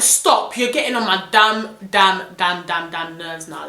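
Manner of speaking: irritated rant at a caller who won't stop; annoyed. Retold or imitated. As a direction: snap at him, fed up. Fed up with repeat caller.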